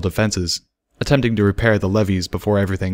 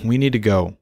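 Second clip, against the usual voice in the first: gentle, enticing; 2 semitones higher than usual. Acted. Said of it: "his tone gentle and enticing".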